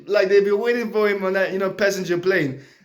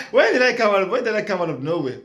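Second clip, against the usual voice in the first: fast laughing; faster than usual. Real, not acted. Laughing at own tangent.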